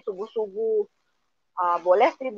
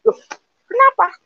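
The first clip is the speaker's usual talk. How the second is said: surprised; 13 semitones higher, 4 dB louder than usual. Retold or imitated. Shocked reply in retold chat.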